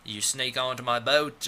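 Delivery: put-on British accent slipping into Australian; badly faked Australian vowels; mock Australian, half-committed; accidental Australian accent. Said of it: "or that's Australian".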